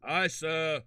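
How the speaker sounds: light Southern drawn-out courtroom testimony; Southern witness. Acted. Mock witness testifying about a fart, lightly put-on Southern accent. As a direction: testify slowly with a hint of the South. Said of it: "Why are we doing, like, the South".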